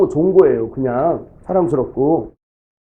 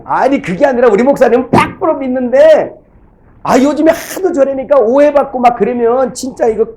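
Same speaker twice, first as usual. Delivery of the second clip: higher and louder, pleading like a worried church elder; raised, earnest church lady protesting; imitating an earnest deaconess; 7 semitones higher, 4 dB louder than usual. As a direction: act out the deaconess insisting she trusts him. Pastor voices deaconess's earnest plea.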